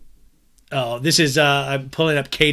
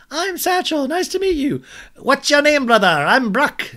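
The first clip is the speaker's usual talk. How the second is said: high mock voice; 11 semitones higher, 4 dB louder than usual.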